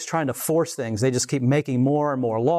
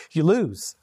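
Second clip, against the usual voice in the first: laughing taunt; 3 semitones higher than usual. Real, not acted.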